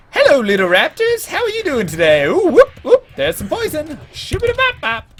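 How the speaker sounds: high, loud, cheery greeting to the creatures; Ryu impression. Streamer imitating Ryu greeting raptors, high and cheery. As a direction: greet the raptors like a gentle animal lover. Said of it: "That is now my new Ryu impression".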